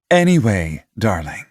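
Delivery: lightly smiling mother voice. A narrator's reading. Mother turning to her son, gently smiling. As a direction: say it with a smile in the voice.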